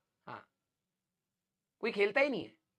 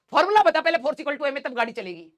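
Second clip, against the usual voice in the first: game quizzing the player, mock stern; mock demand; 3 semitones higher than usual. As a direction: demand the formula first. Imagined game demands formula.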